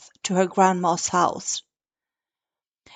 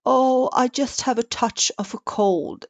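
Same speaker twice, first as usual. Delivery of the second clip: squeaky; 4 semitones higher than usual. Acted. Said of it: "squeaked the wolf".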